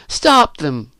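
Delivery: crying out. A narrator's reading. Elizabeth repeats her plea to intervene, crying out. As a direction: call out for help urgently. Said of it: "cried Elizabeth".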